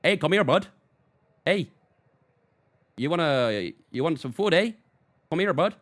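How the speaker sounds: put-on Canadian accent. Streamer calling a wiener dog, mock Canadian accent. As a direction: coax in a light Canadian accent. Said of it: "Use a Canadian accent".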